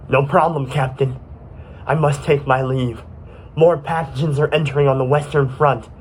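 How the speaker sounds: firm military report; dutiful soldier Microglia. Acted. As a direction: sign off like a soldier returning to battle.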